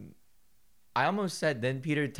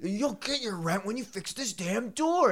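high, slow words through laughter; laughing while talking; 13 semitones higher, 3 dB louder, slower than usual. Real, not acted. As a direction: still cracking up.

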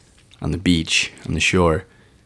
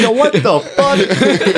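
exasperated outburst, retold; 10 semitones higher, much slower than usual. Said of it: "I said".

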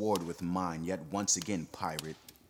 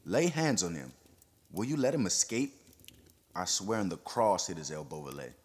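urgent, jostling words. Acted. Perronet urging the crowd to seize him, agitated. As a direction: press the accusation urgently. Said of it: "words seemed to jostle one another".

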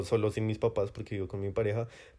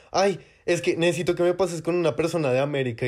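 mock whiny customer; 5 semitones higher than usual. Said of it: "hay gente que es como".

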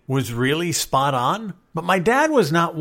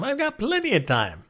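put-on carefree young voice; 10 semitones higher, 3 dB quieter than usual. Young self voiced, high.

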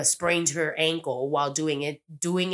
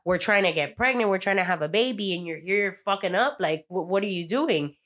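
retold super mad; 3 semitones higher than usual. Recapping Karina confronting her partner over the blackmail, in mock anger. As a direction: imitate an exasperated partner telling someone off. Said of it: "she got super mad".

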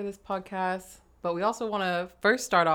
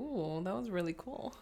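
laughing; 3 semitones higher, 4 dB quieter than usual. Real, not acted. Laughs after intro.

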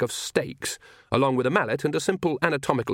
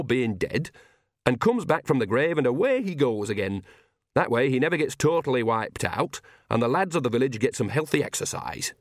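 chatty, lilting country character voice; Nanny, cheerful old witch; 3 semitones higher than usual. Acted. Nanny explains vampire hunting to Magrat, cheerful knowing lilt. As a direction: spin it out with swooping pitch, cheerfully.

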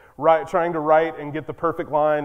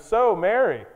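sweetly loaded small-town question; fake-innocent prying; a hint of a nosy neighbour's needling; passive-aggressive. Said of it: "a passive-aggressive kind of".

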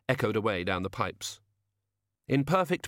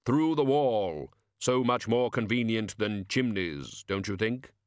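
slow, drawn-out delivery for Death; lightly voiced Death; slower than usual. Death, as customer, chats to the shopkeeper about chimneys, lightly voiced. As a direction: let Death's words fall slowly and deliberately.

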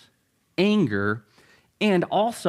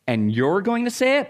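higher-pitched disbelieving challenge; incredulous listener; 5 semitones higher than usual. Acted. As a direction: act out someone questioning his nerve. Shocked listener challenging Jesus.

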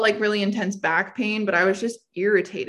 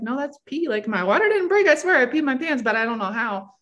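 panicked disbelief; 4 semitones higher than usual. Retold or imitated. Panicked quote in bathroom.

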